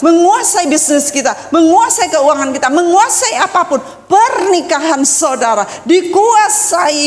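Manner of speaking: stretched key words, rhythmic building list; forceful sermon cadence; emphatic preaching. Real, not acted. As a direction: preach with urgent conviction, leaning on each repeated phrase.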